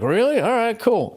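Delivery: high pitched "really?", then pleased; surprised homeowner. Retold or imitated. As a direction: play the stunned grateful homeowner. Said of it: "they're like".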